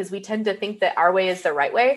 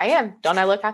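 put-on flat deadpan delivery. Retelling her husband's answer when she says he doesn't seem happy, imitating his deadpan. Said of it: "it's like deadpan".

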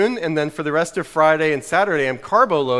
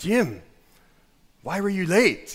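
clumsy, awful, horrible put-on Scottish accent; 3 semitones higher, 3 dB quieter than usual. Retelling a story about arriving late, the speaker quotes someone in a bad scottish accent. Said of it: "I'm gonna keep going with my Scottish accent right now".

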